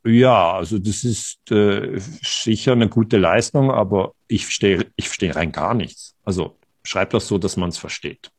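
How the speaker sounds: a hint of a kind but baffled mother; imitating his mother. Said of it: "dann hat sie gesagt".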